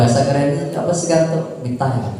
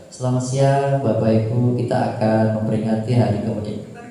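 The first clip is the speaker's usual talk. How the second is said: flat weak demo; 4 semitones lower than usual. Shown as a demonstration.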